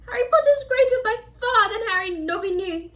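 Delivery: high elf voice, lightly tearful; mild tearful elf; a touch of sobbing. Acted. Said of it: "he sobbed".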